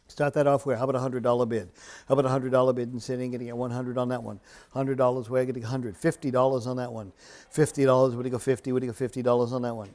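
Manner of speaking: rhythmic auction chant; auctioneer. Real, not acted. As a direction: rattle off the bids in a steady chant. Live auction bid calling.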